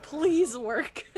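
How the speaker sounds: laughing, pleading through a laugh; mock plea. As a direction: beg the weapon half-laughing. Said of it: "and I'm like".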